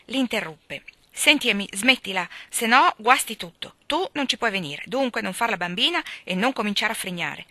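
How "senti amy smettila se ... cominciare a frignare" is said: snappish and louder, cutting in; impatient. Acted. Jo impatiently cutting off her pestering sister. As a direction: scold her impatiently, punching "no". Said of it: "impaziente, l'interruppe".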